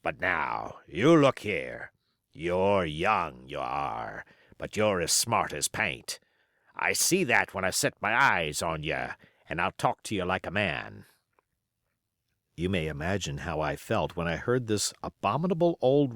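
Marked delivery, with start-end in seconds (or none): 0.0-11.1 put-on old pirate. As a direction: spin yarns like a scheming old pirate. Silver's pirate voice.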